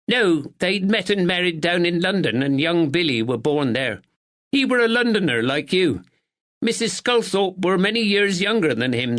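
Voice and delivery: a proper village neighbour, a touch anxious; spinster neighbour. A narrator's reading. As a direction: speak as a dutiful northern spinster. Miss Bennet voiced.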